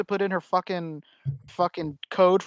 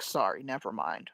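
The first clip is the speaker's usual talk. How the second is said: a lower, softer mumbled backing-down; embarrassed mom; 8 semitones lower, 11 dB quieter than usual. Retold or imitated. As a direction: retreat quietly, a bit embarrassed. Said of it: "she's like".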